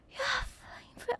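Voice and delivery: imitating drunk woman. Imitating a drunk woman outside the pub at night. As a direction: squeak out a drunk woman's yelp. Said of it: "let me try and get into the voice".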